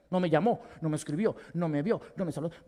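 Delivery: laughing mock resentment; petty complaint. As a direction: list the grievances half-mocking. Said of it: "la voz que acusa a tu líder".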